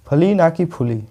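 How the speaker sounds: "फली" short and clipped, "फुली" with a full u; fli not fuli. Shown as a demonstration. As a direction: contrast फली with फुली clearly. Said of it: "इसका जो उच्चारण है ये फूली नहीं है".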